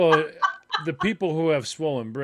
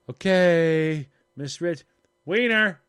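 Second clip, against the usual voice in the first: put-on silly kid blurt; 4 semitones higher, 7 dB louder, slower than usual. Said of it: "just rocking around going".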